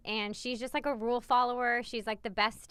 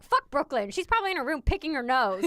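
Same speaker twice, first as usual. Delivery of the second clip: lightly voiced indignant dad, louder; a hint of a blunt, protective father; 4 semitones higher, 4 dB louder than usual. Mother quoting husband defending their daughter, mildly indignant. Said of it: "protective dads and their little girls".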